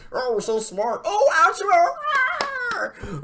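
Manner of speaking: high, loud, stretched-out mock cheer; mocking fans squealing over the Attitude Era; mocking smug fans. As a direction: parody the smart crowd's gushing. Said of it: "they're like".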